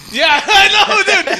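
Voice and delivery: slow, high, laughing through the words; laughing quote. Real, not acted. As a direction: crack up while quoting. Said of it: "laughing while quoting the cop".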